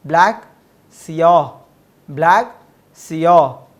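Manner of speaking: "ब्लैक" called out loud with a rise, "सियाह" loud and falling; loud drill. Shown as a demonstration. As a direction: call out each word like a teacher. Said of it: "एक बार जल्दी जल्दी repeat कर लिए".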